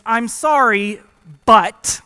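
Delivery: fake apology. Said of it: "any apology that begins".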